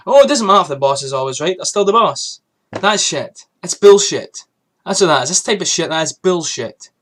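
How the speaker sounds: angry rant. Real, not acted. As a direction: spit out the bullshit in anger. Ranting about boss always right.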